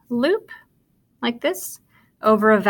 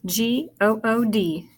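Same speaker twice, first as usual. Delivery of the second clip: "G O O D" letter by letter; spelling aloud. Shown as a demonstration. Teacher spelling good with pupils, spelling aloud. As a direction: separate each letter of "G O O D". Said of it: "Well, let's spell it".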